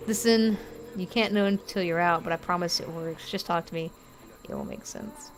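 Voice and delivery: soft reassuring read, fading to a whisper at the end; reassuring voice that sinks to a whisper; reading the game's lines. Acted. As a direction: gently promise it works, trailing off.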